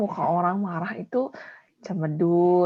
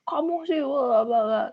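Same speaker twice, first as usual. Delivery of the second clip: higher, blaming tone; mock accusing; 5 semitones higher, slower than usual. Shown as a demonstration. Teacher acts out someone accusing while angry, mock blaming. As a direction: point the finger and blame them. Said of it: "kayak orang nuduh".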